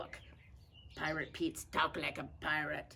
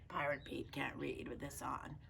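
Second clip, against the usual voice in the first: whisper; 3 semitones lower, 7 dB quieter than usual. Real, not acted. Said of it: "whispering aside".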